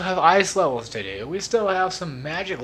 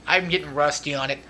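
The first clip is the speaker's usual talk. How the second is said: usual speaking voice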